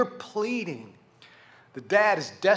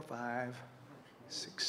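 ordinary delivery

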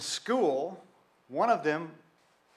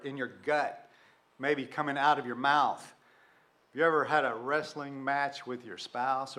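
ordinary delivery

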